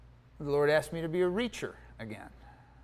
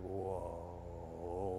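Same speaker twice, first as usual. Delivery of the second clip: long, low, very soft exhaled word; overwhelmed hush; 10 semitones lower, 16 dB quieter than usual. Retold or imitated. Realizing God was crying over his life, hushed awe. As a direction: draw it out quietly in awe.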